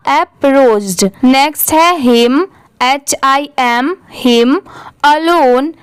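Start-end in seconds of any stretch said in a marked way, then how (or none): 0.1-1.1 अप्रोच्ड slow and joined; whole-word pronunciation. Shown as a demonstration. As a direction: blend it all into अप्रोच्ड. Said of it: "पूरा क्या हो जाएगा?". (अप्रोच्ड मिलाकर धीरे बोलते हुए)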